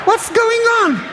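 high squeals with a laugh breaking through; laughing fake scream. Pizzi on the couch faking pain, laughing fake scream. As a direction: fake the pain while barely holding a laugh. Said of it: "smiling and screaming".

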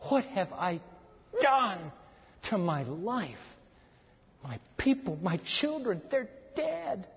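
understated acted weeping; mock sobbing lament. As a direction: act out a grieving man, haltingly. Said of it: "He is just sobbing".

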